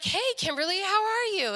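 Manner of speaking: imitated friendly hello, lifted high; friendly greeting. Dad's changed friend greeting the daughter, lightly imitated as friendly. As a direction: greet her with new, unexpected interest. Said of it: "but usually he says".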